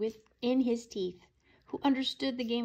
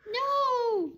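high loud shout; desperate high shout; 9 dB louder than usual. A narrator's reading. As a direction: cry out to stop them. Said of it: "shouted Lulu".

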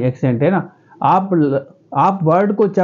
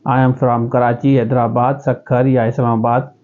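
slow, plain interview answer with pauses; simple interview answer; 4 semitones lower, much slower than usual. Shown as a demonstration. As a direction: answer slowly and simply, in your own accent. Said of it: "आप simply बताएंगे". (धीमा, सीधा interview जवाब)

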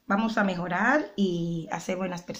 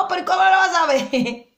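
higher, louder knowing-mom voice with a laugh; mock mother, laughing; 8 semitones higher, 4 dB louder than usual. Mocking her mom's teasing reply to her daughter, laughing. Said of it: "Y mi mamá".

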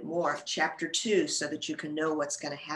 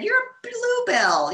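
high, louder cheerful insistence; Bella coaxing; 5 dB louder than usual. A narrator's reading. Bella scolding the bud kindly.

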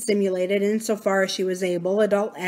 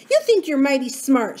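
Abra's voice; 6 semitones higher, 4 dB louder than usual. A narrator's reading. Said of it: "she said".

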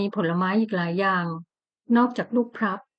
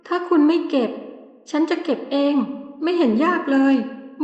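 petulant wife; 3 semitones higher than usual. Acted. Wife petulantly demands husband pick.

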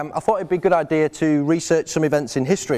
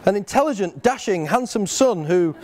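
raised voice, laughing through the praise; reading out his bride's words; 6 semitones higher than usual. Retold or imitated. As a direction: read her note aloud, grinning. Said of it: "So in Sarah's own words".

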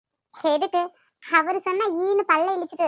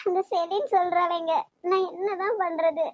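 tearful. Acted. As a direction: let the tears slip into it. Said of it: "எதுக்கு அழற?".

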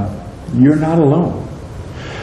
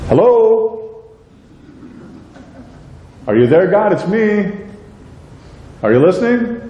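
pleading prayer; 8 semitones higher than usual. Acted. Acting out an unanswered prayer.

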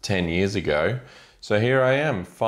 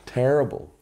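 louder groan; 6 semitones higher, 3 dB louder than usual. Real, not acted.

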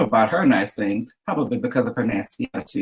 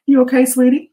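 cooing; 10 semitones higher, 6 dB louder than usual. A narrator's reading. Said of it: "she cooed".

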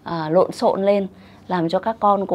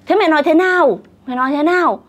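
high, louder retold questioning; exasperated mother; 7 semitones higher, 4 dB louder, faster than usual. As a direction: act out a mum demanding an answer, pitched up.

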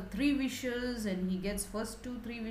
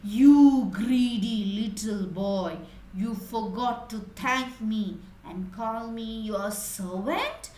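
roaring genie; 4 dB louder than usual. Acted. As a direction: boom the first words like a lion. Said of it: "he roared like a lion and said".

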